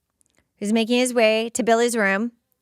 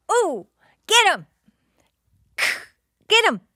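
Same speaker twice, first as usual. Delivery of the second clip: cheering; 9 semitones higher than usual. Real, not acted. Cheering on Buffy's fight.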